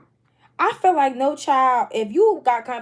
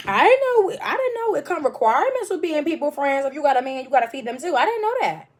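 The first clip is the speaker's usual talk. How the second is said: sarcastic disbelief; 3 semitones higher than usual. Acted. Sarcastic reaction to friend's demand.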